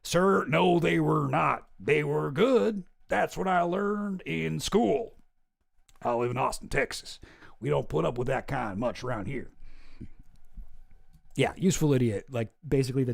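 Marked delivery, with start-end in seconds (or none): 0.0-9.5 Alex Jones impression. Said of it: "he's doing the Chomsky voice at the end".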